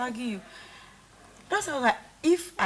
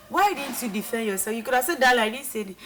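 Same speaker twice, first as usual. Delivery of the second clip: loud; 2 semitones higher, 7 dB louder than usual. Retold or imitated. Retold confrontation.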